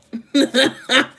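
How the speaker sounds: a burst of real laughter, high and loud. Real, not acted. Viewer hears her laugh at her own rant, loud laughter. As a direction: break into a big laugh.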